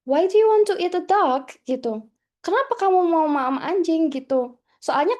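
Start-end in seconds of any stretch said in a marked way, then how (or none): 0.0-1.5 higher, louder mock-startled question; retold shock. Startled housemate questioning friend about what to eat, retold shock. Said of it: "Terus saya kaget". 2.4-4.1 mildly startled, higher and louder question; retold shock. Startled student translating her question to housemate, retold shock. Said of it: "Terus saya kaget".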